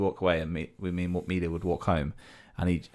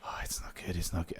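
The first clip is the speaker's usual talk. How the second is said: glum reply; 9 dB quieter than usual. Retold or imitated. Glum friend's answer acted out.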